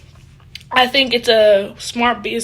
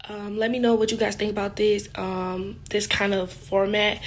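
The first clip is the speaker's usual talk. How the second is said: talking around a toothbrush; words muffled by a toothbrush; toothbrush in mouth; 6 dB quieter than usual. Real, not acted. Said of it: "Sorry about the toothbrush".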